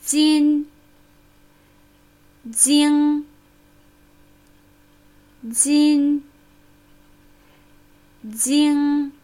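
"Jin" with a light front n, "jing" with a dark ringing ng; "Jin" tongue behind the teeth, "jing" dark like a bell; Chinese syllables demo. Shown as a demonstration. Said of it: "lassen Sie uns nun die dunklen und hellen Konsonanten ng erkennen".

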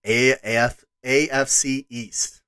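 A F C East in a slipped, strange accent; odd accent. Real, not acted. Podcast host previewing next week, an accent slips in. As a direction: let an accent creep into A F C East. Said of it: "Boy, I had an accent there".

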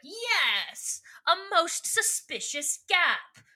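accusing Visser, hammed up; hammy accuser. Visser Three accusing the defendant at trial, hammed-up.

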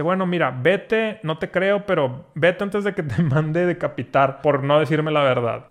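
mildly exasperated king, drawn-out words. Acted. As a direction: send him off with a touch of desperation. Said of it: "El rey, así desesperado".

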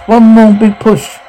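slow, high-pitched coaxing; urging encouragement. Acted. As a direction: draw out the call for effort. Coaching a woman giving birth.

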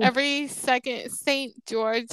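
"Saint George" with a marked Utah S; mock Utah S sound in "Saint". Shown as a demonstration. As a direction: draw attention to each S in "second" and "Saint". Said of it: "the S where they go".

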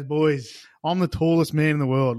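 a mildly hyped-up mock announcement; excited boasting. Second bloke telling the boys of his record, excited boast.

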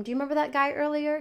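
put-on high, fast sing-song question to a toddler; light and breezy, coaxing the child to talk; gentle mom-to-child voice. Mom questions son, retold.

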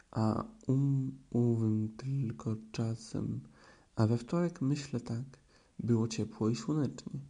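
slow, careful recitation of verse; a bear reciting his little poem with dignity; declaiming a poem. A narrator's reading. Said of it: "zaczął deklamować".

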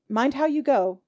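a light motherly warning; lightly voiced landlady; caring warning. May warning.

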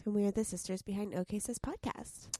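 creaky vocal fry, just woke up. Real, not acted. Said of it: "your vocal fry is in full force".

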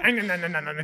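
quick repeated gnawing sound; mock chomping noise; imitated biting noise. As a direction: mimic gnawing on someone with nonsense syllables. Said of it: "just biting this guy's ear off".

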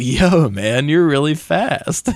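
lightly voiced laid-back stoner. Demon brother to his opponent, lightly voiced stoner. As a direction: drag the last words like a stoner. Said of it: "He was like some stoner".

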